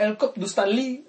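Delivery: loosely French-sounding put-on voice; vaguely French, hammed-up title; mock French accent. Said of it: "that was probably French".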